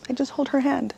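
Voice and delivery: getting emotional. Real, not acted. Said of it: "you see, I get emotional now".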